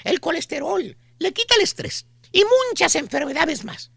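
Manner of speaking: pushy saleswoman. Retold or imitated. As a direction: play the sweet-talking pitch lady. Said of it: "la chuntara con el típico folletito".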